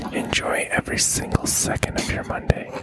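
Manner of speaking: whisper yelling. Acted. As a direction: yell it but in a whisper. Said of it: "we're doing A S M R".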